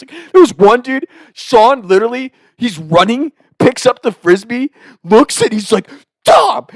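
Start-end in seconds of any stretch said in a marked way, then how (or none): 6.2-6.7 high, sudden shout of a name; reenacted on-field call. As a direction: imitate a teammate yelling for you. Teammate calls him in retold game.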